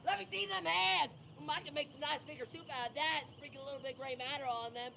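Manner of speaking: lightly voiced creepy butcher building to a shout; a hint of a mad chef; gleeful cannibal. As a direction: relish the gross threat. Scare actor threatening guest.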